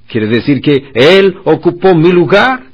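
stunned realization. Retold or imitated. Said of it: "Y pensaron".

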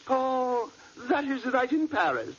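playing the woman. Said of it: "I'll be the woman".

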